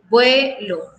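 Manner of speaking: "Vuelo" split in two, stress on "Vue"; stress on first syllable. Shown as a demonstration. Teacher showing a grave word, "Vuelo" stressed on its first syllable. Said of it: "en la primera sílaba".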